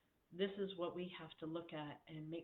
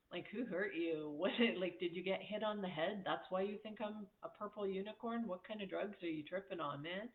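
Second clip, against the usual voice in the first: amused, louder teasing disbelief; laughing mockery; 2 semitones higher, 3 dB louder than usual. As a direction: laugh at the absurd insult. Mocking a critic with laughter.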